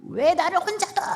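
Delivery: high-pitched outburst at ordinary volume; mock angry yell. Wife protesting being left alone, mock angry yell. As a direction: imitate an upset protest, pitched well up. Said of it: "막 그러면서 막 소리를 지르고".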